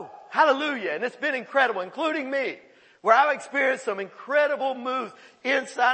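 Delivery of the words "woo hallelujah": mock church shout. Touched by God in church.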